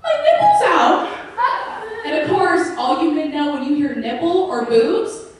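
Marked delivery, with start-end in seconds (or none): 0.0-2.0 very high, loud fake alarm; hammed-up cry of dismay, drawn out at the end; mock yell. Flirting friend yelling for men's attention, high-pitched mock yell. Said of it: "And then it yells".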